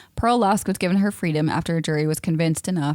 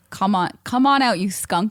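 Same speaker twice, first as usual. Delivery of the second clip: mock yell; 4 semitones higher, 3 dB louder than usual. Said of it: "they yelled at him again".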